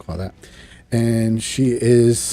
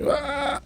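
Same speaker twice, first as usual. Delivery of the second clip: high imitated "ah"; a high cry, held back in volume; mimicked power cry; 6 dB quieter than usual. Retelling Bishop absorbing the blast, mimicked high cry.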